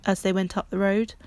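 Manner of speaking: usual speaking voice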